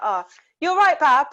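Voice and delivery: high-pitched imitated Wolverhampton accent; put-on Wolverhampton friendliness; Wolverhampton greeting. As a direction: greet customers in a mock Black Country lilt. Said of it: "when I lived in Wolverhampton".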